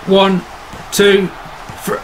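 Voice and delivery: rising excited count; pin count. Real, not acted.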